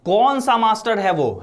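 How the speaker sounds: angry shouting father. Acted. Father confronting the school over his son, acted angry shout. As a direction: demand it like an outraged father, moderately loud. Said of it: "चिल्लाने लगे। बोलते हैं".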